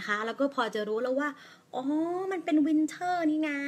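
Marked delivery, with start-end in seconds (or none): 1.7-3.6 slow, higher dawning realisation; slowly drawn out เป็น winter นี่นา as a discovery. Shown as a demonstration. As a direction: think it through aloud as if it just clicked. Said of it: "อันนี้คือสาธิตให้ดูนะคะ".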